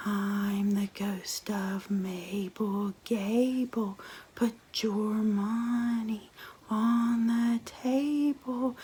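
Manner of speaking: slow, eerie whispered ghost; drawn-out haunting whisper. Acted. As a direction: breathe it out like a spectre. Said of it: "And the ghost said".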